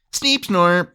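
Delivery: playful robot beeps; toy robot voice. Pretend. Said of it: "add a beep bop fleep flop".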